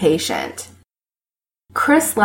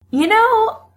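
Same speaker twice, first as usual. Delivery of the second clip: thoughtful. A narrator's reading. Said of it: "Chris says thoughtfully".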